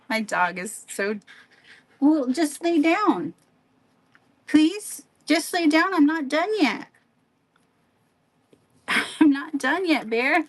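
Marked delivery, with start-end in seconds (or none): 2.0-6.9 high, louder pleading pet voice; talking to a dog. Real, not acted. 9.2-10.4 laughing at the dog. Real, not acted. Laughing while scolding the dog.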